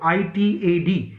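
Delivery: आईटीएडी said slowly as separate letters I T A D; spelled mnemonic. Shown as a demonstration. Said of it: "इतैद करके याद रख लो".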